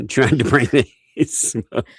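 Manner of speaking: slow, high mock teen boy; prepubescent boy voice. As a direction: put on a cracking boy voice. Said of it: "You need to do the voice cracking for him".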